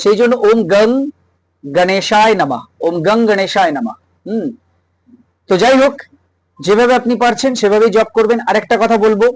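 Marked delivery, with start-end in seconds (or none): 0.5-4.0 গং as "gung", neither "gaang" nor "gong"; short neutral vowel in গং, গণেশায় drawn out; slanted Hindi-style vowel. Shown as a demonstration. Teacher summing up the slanted pronunciation, গং as "gung". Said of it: "বেঁকা বেঁকা উচ্চারণ হয়".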